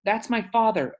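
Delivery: high, slow, loud outcry; slow high pleading shout; upset protest. Acted. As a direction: cry out to defend your dad. Boy protests to police.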